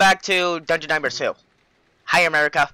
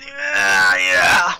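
thrilled. Real, not acted. Thrilled by the scares.

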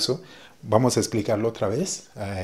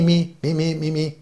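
me, me, me said higher and punched; repeated me; 5 semitones higher than usual. Shown as a demonstration. Teacher drills the Patois me for learners. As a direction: hammer the word me over and over. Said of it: "siempre escucha me".

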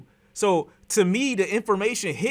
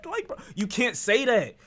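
laughing out the words, high burst first; laugh, then scold through it; 6 semitones higher than usual. Real, not acted. Reacting to the overdose remark, laughing. Laughs at friend's blunt phrasing.

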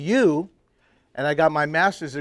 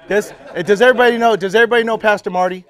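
laughing; 8 semitones higher, 11 dB louder, faster than usual. Real, not acted. Laughing aside to the congregation.

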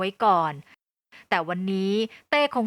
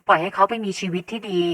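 firm; 4 dB louder than usual. A narrator's reading. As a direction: press each word home steadily. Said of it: "แม่พูดด้วยน้ำเสียงหนักแน่น". (น้ำเสียงหนักแน่น)

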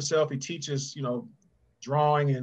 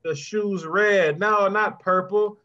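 slow, insistent, raised and pushing louder over every detail; fussy perfectionist instructions; 5 semitones higher, 4 dB louder than usual. Retold or imitated. Author retelling orders to his illustrator, fussy and insistent. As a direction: nitpick each choice like a demanding client. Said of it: "I had to say".

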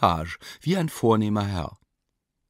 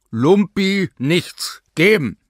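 loud, slow, higher command; booming command; 8 semitones higher, 8 dB louder, slower than usual. A narrator's reading. A command booms from the examination room, loud. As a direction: bark the order across the house. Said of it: "dröhnte ein Befehl".

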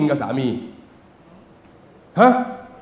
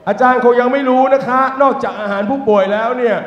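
higher, lively female voice; voiced hospital worker; woman's voice; 6 semitones higher than usual. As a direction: play the chatty woman explaining. Woman explains, voiced by teller.

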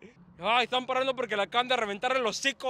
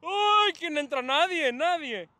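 exasperated cry; 5 semitones higher, slower than usual. Real, not acted. Nobody arrives for the cross.

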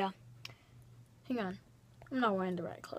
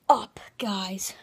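whisper; 5 dB louder than usual. Acted. Whispered end of greeting.

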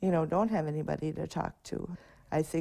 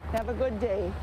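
cheery send-off; 5 semitones higher, 3 dB louder than usual. Real, not acted. Sending kids off at crossing.

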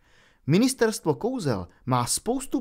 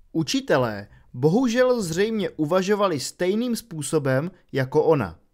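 ordinary delivery, nothing marked

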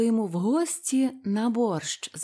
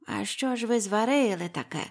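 put-on curious old witch. A narrator's reading. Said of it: "поцікавилась баба Яга".

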